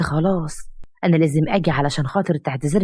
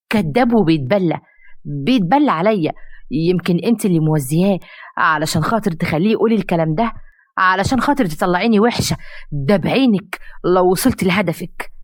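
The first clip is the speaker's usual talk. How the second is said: angry denial; 2 semitones higher than usual. Acted. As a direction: spit the denial back at her. Arwa accused, denies angrily.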